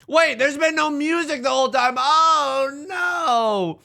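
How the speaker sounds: high, loud sudden alarm; startled dismay. Real, not acted. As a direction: realize the mistake, alarmed. Realizes no music.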